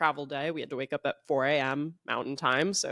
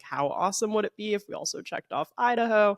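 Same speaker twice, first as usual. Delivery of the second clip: quick, higher, eager gush; excited; 5 semitones higher, faster than usual. Retold or imitated. Retelling her idea to Andrew, fast and excited. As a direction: pitch the idea with giddy excitement. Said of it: "and I was like".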